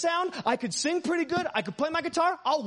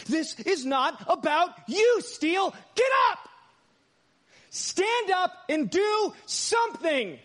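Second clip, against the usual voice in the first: urgent inner call; 6 semitones higher, much slower than usual. Retold or imitated. By the supernatural Spirit of God.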